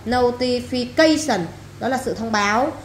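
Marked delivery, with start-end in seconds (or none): 0.1-1.4 Notification said slowly, CA punched; slow Notification, stressed on CA; stress on fourth syllable. Shown as a demonstration. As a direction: draw out Notification and hit its fourth syllable, then fall. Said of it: "nhắm ông bốn luôn".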